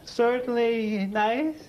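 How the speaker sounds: long drawn-out pauses between words; super slow sleepy sloth. Acted. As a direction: dawdle through it like a sloth. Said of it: "he makes a sloth look like Sebastian Coe".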